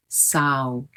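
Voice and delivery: "sao" closing to ow; "sao" with the mouth shutting; imitating the mistake. Teacher shows the student's closing mouth. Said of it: "the mistake of closing his mouth".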